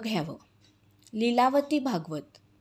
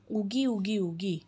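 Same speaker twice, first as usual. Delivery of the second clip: softer, lower, comforting a tearful friend; soothing hush; 3 semitones lower, 4 dB quieter than usual. Acted. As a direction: gently shush her, sinking lower and softer. Friend soothes the crying one. (हळू, समजावणीच्या सुरात)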